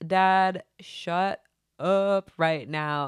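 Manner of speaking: retold excited cry to dad; excited outburst. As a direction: blurt it out in amazed disbelief. Excited reaction to dad's news.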